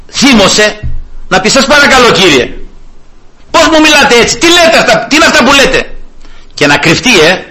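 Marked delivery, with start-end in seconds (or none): 1.5-6.0 hammed-up offended protest, higher; mock indignation. Preacher imagining an offended woman protesting, mock indignant. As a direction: pretend she is affronted.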